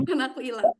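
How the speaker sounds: giggling while pretending to hide; playful laugh. Shown as a demonstration. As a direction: laugh like a kid playing hide-and-seek. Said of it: "ngumpet kayak gini". (tertawa kecil sambil pura-pura bersembunyi)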